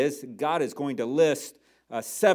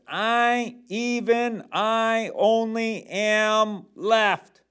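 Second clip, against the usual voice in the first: lament; 6 semitones higher, 5 dB louder, much slower than usual. Acted. Preacher dramatizing Elijah's lament.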